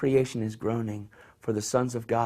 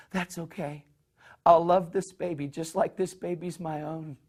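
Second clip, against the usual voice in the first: a touch of tender acceptance; 4 semitones higher than usual. Retold or imitated. Husband accepts pregnancy.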